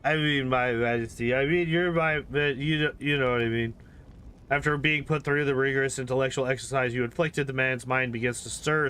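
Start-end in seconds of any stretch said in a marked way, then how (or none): 0.0-3.8 seasoned lout. Acted. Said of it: "tone switches to that of a seasoned lout".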